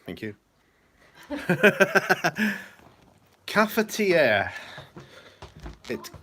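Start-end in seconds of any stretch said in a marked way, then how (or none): 1.2-2.7 high, loud burst of laughter; a delighted triumphant laugh. Real, not acted. Relieved at finally getting the name. 3.5-4.5 slow, higher, louder cafetiere; triumphant recall. Real, not acted. Finally recalls the word.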